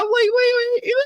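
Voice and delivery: high, gasping between laughs; trying to speak through laughter; breathless laughing. Real, not acted. Laughing too hard to tell Kate the truth.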